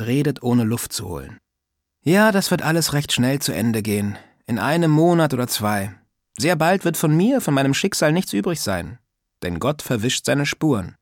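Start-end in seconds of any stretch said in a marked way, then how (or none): 2.0-11.0 higher, lightly voiced old neighbour, teasing; a prying old lady scolding lightly; old woman's voice. Old neighbour teasing Sascha about manners, lightly voiced old woman.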